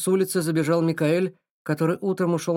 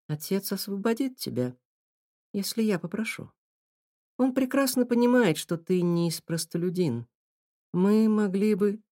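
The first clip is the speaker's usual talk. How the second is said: put-on pleading young girl; 6 semitones higher than usual.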